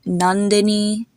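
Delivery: "Nandini" slowly, ending dih-nee; short then long I. Shown as a demonstration. Teacher giving another example name, slow "Nandini" ending dih-nee. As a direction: draw out "Nandini", short first I, long last I. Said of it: "the first I is short".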